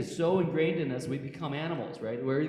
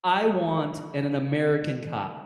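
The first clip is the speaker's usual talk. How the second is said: louder repeat of the quote; 5 dB louder than usual. Retold or imitated. Repeating the bleeding man's demand to the audience, loud and emphatic. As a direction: hammer home what the victim demanded. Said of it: "That's what he says at that moment".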